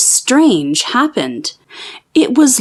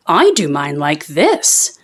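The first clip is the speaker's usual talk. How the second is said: lower, heavy horse voice; 6 semitones lower than usual. A narrator's reading. Horse answers.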